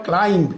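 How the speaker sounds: ক্লাইম্ব with the final b sounded; voiced final b. Shown as a demonstration. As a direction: say ক্লাইম্ব as spelt, ending in an audible "mb". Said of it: "বি এর উচ্চারণটা থাকবে না". (ক্লাইম্ব-এর শেষের ব উচ্চারণ করে)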